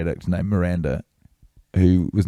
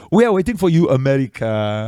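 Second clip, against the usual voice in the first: put-on Caribbean-style accent, pitched up, drawing out America; imitated Caribbean-sounding accent; 5 semitones higher than usual. Karaoke MC calling to the crowd before the girls go up, mock Caribbean accent. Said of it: "has this quite fun accent".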